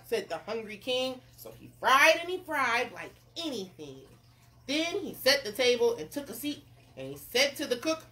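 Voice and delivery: animated read-aloud narrator; story narration. A narrator's reading. Narrator tells of the king fishing, story narration. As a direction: tell it with bouncy emphasis.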